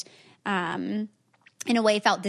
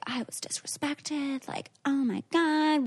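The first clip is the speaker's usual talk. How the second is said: higher, mock-indignant self-quote; mock high horse; 5 semitones higher, 4 dB quieter, slower than usual. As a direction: imitate being up on your high horse. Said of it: "up on this high horse".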